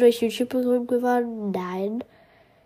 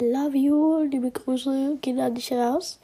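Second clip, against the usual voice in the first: chewing while talking; 2 semitones higher than usual. Real, not acted. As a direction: mouth full of waffle. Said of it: "ich esse gerade Waffeln". (mit vollem Mund sprechen)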